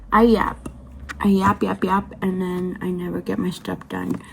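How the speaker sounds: talking with whitening strips in; words round a whitening tray. Real, not acted. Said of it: "I do have whitening strips in my mouth".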